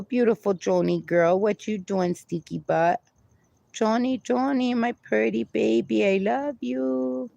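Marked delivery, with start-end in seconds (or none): 1.8-7.3 tender to the dog. Real, not acted. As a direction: coo it to your pet, softly. Talking to her dog Joni.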